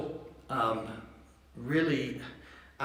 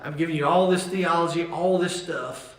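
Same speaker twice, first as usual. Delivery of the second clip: voicing Paul with eager, louder energy; excited Paul; 3 semitones higher, 6 dB louder than usual. Preacher voicing Paul's excitement to the congregation, eagerly. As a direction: burst out like the theology thrills you. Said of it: "he just gets really excited".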